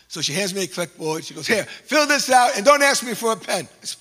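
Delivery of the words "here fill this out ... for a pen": gruff order. Retold or imitated. Officer hands clipboard gruffly.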